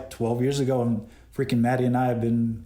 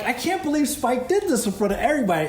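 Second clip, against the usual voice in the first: amused disbelief; 11 semitones higher, faster than usual. Retold or imitated. Retelling his own disbelief.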